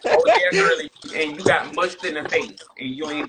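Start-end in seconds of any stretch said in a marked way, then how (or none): 0.1-0.9 laughing. Real, not acted. Laughing while teasing.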